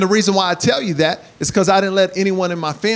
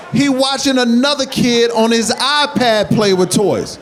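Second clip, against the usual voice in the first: exasperated repeat; 3 semitones higher than usual. Acted. Repeated louder, slower, laughing.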